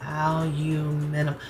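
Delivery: "aluminum" slowly as British al-you-MIN-ium; British pronunciation. Shown as a demonstration. American trying out her viewers' version, slow British "aluminum". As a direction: feel out "aluminum" with a "you" sound, British style. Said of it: "That's how you all say it".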